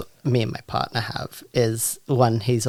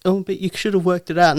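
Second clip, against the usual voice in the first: mock dismissive quip; 7 semitones higher, 3 dB louder, faster than usual. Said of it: "mimicking other people".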